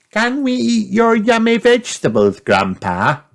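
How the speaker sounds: put-on high eager little girl. A narrator's reading. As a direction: ask hopefully like a child. Peppa voiced high.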